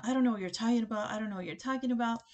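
rattled-off retold denial; quick, dismissive imitation of playing dumb; evasive brush-off. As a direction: rush through it, imitating someone dodging. Retold date dodging her remark.

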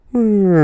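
high, small droning hum; imitated winding-down whine; wind-up doll running down. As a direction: hum like a toy losing power. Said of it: "like a wind up doll".

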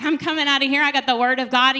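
empowered, like a beast. Retold or imitated. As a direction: charge out ready for battle. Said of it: "you feel like a beast".

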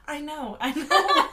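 laughing as the words come out; sheepish laughing admission. Retold or imitated. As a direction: own up to it, breaking into laughter. Admits overreaction, laughing.

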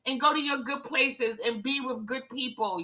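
high, excited pep talk to herself; excited self-talk. Real, not acted. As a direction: cheer yourself on like a best friend. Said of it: "but I'm telling myself".

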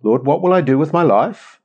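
growing insistence. Acted. Prayer to God moving on, growing insistence. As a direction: press God gently for an answer. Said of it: "then it moves on to".

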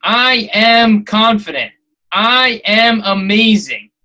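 slow, firm affirmations; positive affirmations. Shown as a demonstration. Podcaster demonstrating affirmations to listeners, slow and firm. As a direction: state each one slowly and surely. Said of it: "Do positive affirmations".

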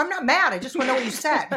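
high, loud denial of anger; defensive, clearly mad. Retold or imitated. Denying to her partner she is mad, high and loud. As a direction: insist you're calm while fuming. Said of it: "I go".

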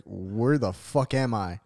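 slow, low-key bewilderment; dazed confusion. Acted. Imagining waking in a hospital, slow dazed confusion. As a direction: draw it out as if just coming to.

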